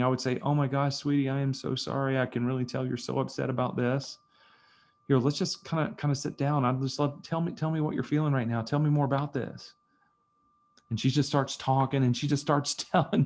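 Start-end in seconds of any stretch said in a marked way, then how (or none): 0.4-9.7 empathic. Shown as a demonstration. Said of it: "genuinely empathically listening".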